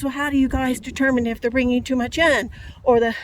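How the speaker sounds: retold angry complaint. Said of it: "Paul says".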